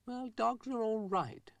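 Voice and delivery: high, slow, breathless whisper; high whispered old man. A narrator's reading. Mister Rusty grudgingly answers Florence in a high slow whisper.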